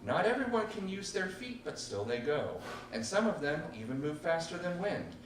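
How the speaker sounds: measured spoken-word poem; poetry reading. Acted. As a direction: recite the poem with weight. Continues poem.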